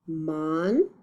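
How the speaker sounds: MONSTER split into two beats, mon, then ster; broken into syllables. Shown as a demonstration. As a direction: say MONSTER syllable by syllable with a clear gap. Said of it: "read them when they're broken up".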